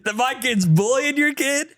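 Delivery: laughing while talking. Real, not acted. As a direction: giggle through the words. Laughing through his joke.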